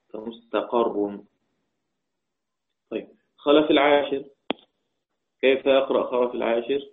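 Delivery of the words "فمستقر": فمستقر as "fa-mustaqarrun", slow and softer; fatha on the qaf. Shown as a demonstration. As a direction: give فمستقر an a after the ق, "qarr". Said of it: "فتح القاف".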